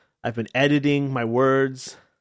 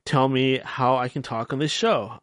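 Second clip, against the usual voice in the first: normal talking voice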